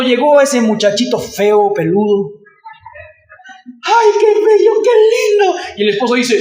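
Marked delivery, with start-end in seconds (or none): 3.8-5.6 doting mother. Retold or imitated. Mother cooing over new baby.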